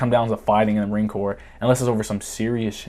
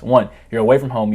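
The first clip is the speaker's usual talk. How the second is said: usual speaking voice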